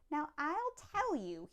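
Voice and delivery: lightly voiced secretive old Onceler; teeth sounding gray. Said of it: "with his teeth sounding gray".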